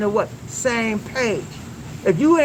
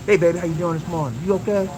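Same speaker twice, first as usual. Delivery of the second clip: caring check-in; 4 semitones lower, faster than usual. Shown as a demonstration. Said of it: "deep stuff".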